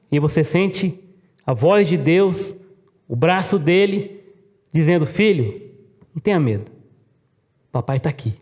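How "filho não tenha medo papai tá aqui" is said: tender reassurance. Acted. God soothing a child as father.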